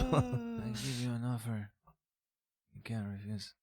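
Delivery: slow, quiet Italian mobster voice; Godfather Italian accent. Shown as a demonstration. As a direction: mumble it like the Godfather. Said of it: "Do it in the accent".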